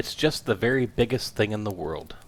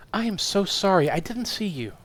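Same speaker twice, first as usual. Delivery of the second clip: flustered wife; 11 semitones higher than usual. Acted. Wife apologises to the guest.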